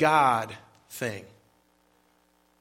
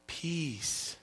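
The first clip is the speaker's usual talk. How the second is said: hushed, softer movie-trailer "Peace."; dramatic movie voice; 11 dB quieter than usual. Pretend. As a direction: breathe "Peace." out softly like a film line. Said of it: "Sounds like from a movie".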